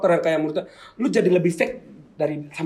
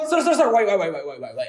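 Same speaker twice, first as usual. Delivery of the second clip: fake English; 3 semitones higher than usual. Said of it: "ngomong Inggris".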